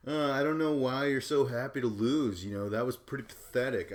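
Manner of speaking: mock sneering taunt. Bananas mocking CM Punk for losing, loud sneer. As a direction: sneer it down at him like a bully. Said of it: "And Banana's just like".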